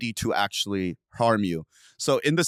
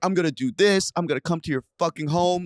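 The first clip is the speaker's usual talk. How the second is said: high-pitched mock threats, not shouted; livid caller, retold; 5 semitones higher than usual. Stalker texting threats when ignored, retold as livid. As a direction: imitate an angry texter, pitched up. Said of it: "She's, like, livid".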